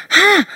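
a taunting one-note ha; scoffing ha. Retold or imitated. Practising a scornful laugh.

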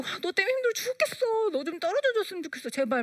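put-on a high, fed-up whine at the child; exasperated complaint. Mother complaining to her clingy child, fed up. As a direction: toss out the blame carelessly. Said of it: "너무 아무렇지도 않게".

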